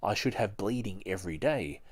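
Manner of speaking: steady read-aloud narration voice; measured audiobook reading; book reading. Acted. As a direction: read it like a chapter to listeners. Reads a biography aloud.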